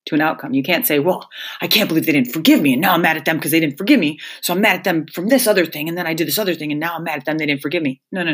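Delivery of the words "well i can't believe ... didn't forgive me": quick, aggrieved self-pitying rant; mock grievance. Mocking the listener who resents being unforgiven, quick and sulky. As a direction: parody someone sulking over no forgiveness.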